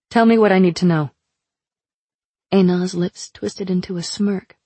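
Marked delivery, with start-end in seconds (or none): 0.1-1.1 demanding. Acted. Narrator demands answers.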